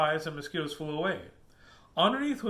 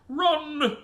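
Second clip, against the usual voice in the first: high, loud shout; yelled warning; 12 semitones higher, 8 dB louder than usual. Acted. Dad to everyone as the bugs return, urgent yell. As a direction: yell it out to get everyone moving. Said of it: "yelled Helen's dad".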